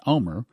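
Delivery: Omer said without a final T; silent T. Shown as a demonstration. Teacher giving the correct pronunciation, Omer with silent T. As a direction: end Omer on the R, no T. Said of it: "correctly pronounced".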